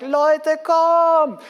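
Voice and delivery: high, loud call across a field; loud emotional call. Shown as a demonstration. Preacher calls a crowd of football players over, loud and emotional. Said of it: "Also so richtig laut und emotional".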